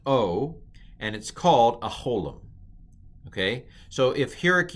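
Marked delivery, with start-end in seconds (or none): 0.1-0.6 "O" as a long vowel; demonstrated pronunciation. Shown as a demonstration. Teacher sounds out the holem, long "O". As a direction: hold "O" as in go. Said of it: "it is pronounced".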